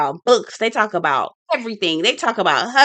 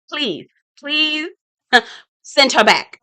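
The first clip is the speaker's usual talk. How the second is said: laughing; 5 semitones higher, slower than usual. Real, not acted. Laughing plea to the producers.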